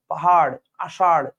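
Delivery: slow পাহাড়, আষাঢ়, each ending on a curled-back tongue flap; retroflex flap. Shown as a demonstration. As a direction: separate পাহাড় and আষাঢ়, stressing the retroflex final ṛ. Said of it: "উচ্চারণটা এখান থেকে হয়".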